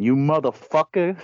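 imitating crazy lady. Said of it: "she starts saying".

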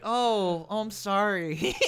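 slow, laughing sorry; laughing mock apology. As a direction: apologise through giggles. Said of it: "That's kinda what I was like".

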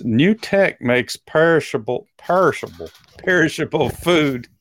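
Texas accent. Shown as a demonstration. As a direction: stretch "perishable" in a Texas accent. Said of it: "That was my Texas accent coming out".

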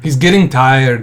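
slow imitation of a Brazilian accent. Co-host mimicking his friend's coach, laid-back Brazilian accent. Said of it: "but in a Brazilian accent".

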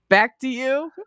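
high, laughing, rising; laughing quote. Retold or imitated. Repeating the favorite line, laughing and high. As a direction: toss it back lightly while laughing. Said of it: "I love that she says that".

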